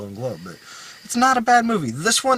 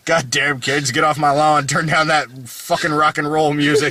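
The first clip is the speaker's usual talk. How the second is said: put-on grumpy old man; 4 dB louder than usual. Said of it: "my eighty-year-old man moment".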